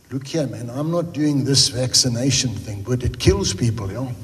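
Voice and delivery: low, slow Eastern Cape farmer drawl; lightly imitating a slow Eastern Cape farmer. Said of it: "That's how he's talking".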